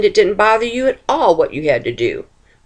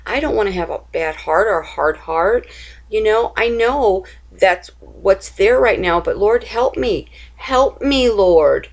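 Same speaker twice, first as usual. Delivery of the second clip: pleading prayer; 3 semitones higher than usual. Pretend. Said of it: "go to him and say".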